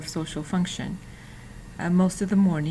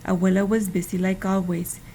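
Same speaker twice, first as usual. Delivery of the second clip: storybook reading. Acted. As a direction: read it aloud like a picture book for children. Reading a children's book aloud.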